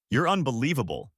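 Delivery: spitting angry line; spat out. Acted. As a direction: spit it at her. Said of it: "he spat".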